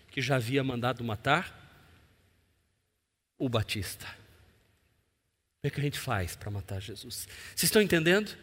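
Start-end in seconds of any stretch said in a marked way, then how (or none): 4.1-7.3 low, slow scheming whisper-voice; hushed plotting. Retold or imitated. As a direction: ask it slowly and quietly, plotting. Fariseus tramando matar Jesus. (pergunta lenta e sussurrada)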